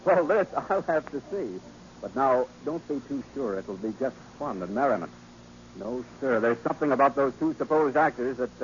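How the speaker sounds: usual speaking voice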